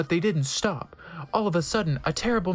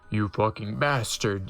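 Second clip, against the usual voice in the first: yelled insult; 7 semitones lower than usual. A narrator's reading. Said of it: "yelled Draco at Vampire".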